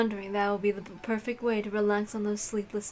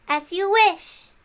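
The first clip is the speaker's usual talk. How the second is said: solemn knight; 8 semitones higher, 5 dB louder, slower than usual. Acted. Dlanor answers Bernkastel.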